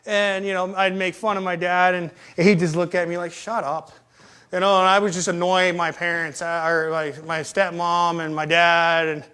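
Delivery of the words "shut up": low, soft retold grumble; weary dismissal. Dad to his nagging kid, weary dismissal. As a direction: dismiss it quietly, fed up.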